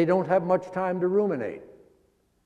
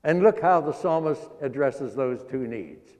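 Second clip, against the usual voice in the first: usual speaking voice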